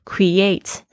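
create as "kree-ATE", second syllable stressed. Shown as a demonstration. Teacher showing where the stress falls, stress on ATE. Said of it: "重音在ate上面".

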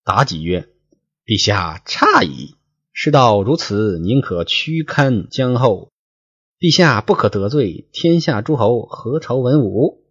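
measured storyteller's reading voice, lines drawn out; 说书人朗读古文; classical story reading. Acted. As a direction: read the old novel aloud like a storyteller. Reads classical novel text aloud.

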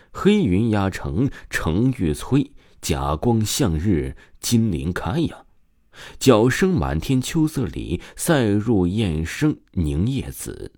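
slow, measured classical recitation; poem recital. A narrator's reading. Boy reciting a poem at the darkening sky, slow. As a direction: declaim the verse line by line. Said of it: "史业刚叫道".

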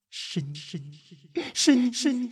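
eerie, echoing voice climbing from hushed to high; haunt him with the accusation; accusing ghost. Acted. Ghost blaming him for her lost child, eerie.

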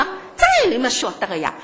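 imitating mother's matter-of-fact reply, falling away at the end; cool, unimpressed. Mother answers her child's question about the famous writer, coolly matter-of-fact. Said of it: "很冷静的".

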